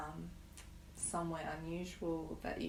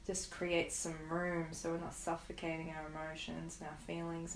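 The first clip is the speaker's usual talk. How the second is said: guided meditation. Acted. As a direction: ease them into stillness, unhurried. Leads a guided grief meditation.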